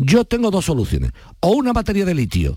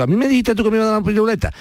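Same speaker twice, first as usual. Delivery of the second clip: high, fast, lightly voiced childish whine; mock whiny child; 7 semitones higher, faster than usual. Host mocking a caller as a petulant child, high and fast. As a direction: whine like a kid who was promised a lollipop. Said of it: "para empezar como niño chico".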